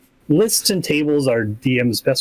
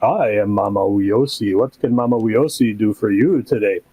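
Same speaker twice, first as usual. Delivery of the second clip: Mama Uyosi voice; 4 semitones lower than usual. Retold or imitated. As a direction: lower NPC shopkeeper voice. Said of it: "So then suddenly you get like".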